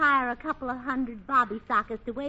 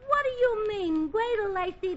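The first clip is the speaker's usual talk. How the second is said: mock outrage; 8 semitones higher than usual. Mock-indignant defence of George.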